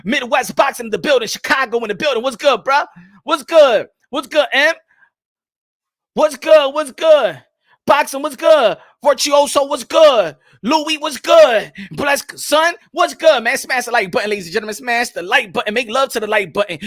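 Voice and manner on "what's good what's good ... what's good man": hype shout-outs. Real, not acted. Host loudly greeting viewers in the chat. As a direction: call out each name like a hype man.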